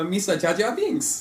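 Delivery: slow, high Gungan voice; drawn-out cartoon alien; Jar Jar Binks voice. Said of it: "tell me what you sound like".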